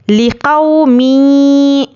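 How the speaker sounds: मी said slowly with the voice dropping. Shown as a demonstration. Teacher shows students zer sound: मी going down. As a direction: let मी sink downward as zer. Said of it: "आवाज़ नीचे को जाती है".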